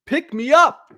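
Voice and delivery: a listener begging the host to lift the mood; pleading listener. Retold or imitated. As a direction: beg like a fan who wants cheering up. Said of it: "I hear from a lot of you often".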